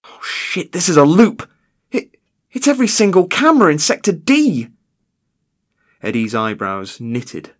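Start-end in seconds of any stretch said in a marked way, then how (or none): 0.0-0.7 whispered shock. Acted. Guard notices camera loop. 0.7-4.7 high, loud panicked outburst; rising alarm, almost yelling. Acted. Guard realising the break-in.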